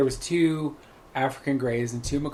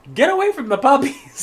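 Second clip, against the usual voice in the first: high, loud squawked order; talking macaw; 12 semitones higher, 7 dB louder than usual. Retold or imitated. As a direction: screech it like a jealous parrot. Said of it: "the bird honestly said".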